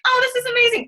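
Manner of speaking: high, gushing mock excitement; mock elation. She acts out her emotional roller coaster, in a high, giddy voice. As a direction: swing up into giddy joy. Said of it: "I'm emotional roller coaster".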